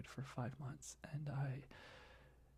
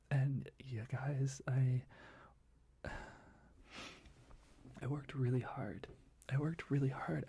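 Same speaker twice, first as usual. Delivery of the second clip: emotional. Real, not acted. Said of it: "just kinda how I just did right now".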